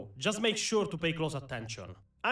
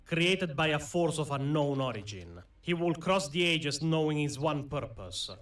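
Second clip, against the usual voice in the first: story narration; 3 semitones lower than usual. Acted. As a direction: tell it like an epic legend. Dramatic lore intro narration.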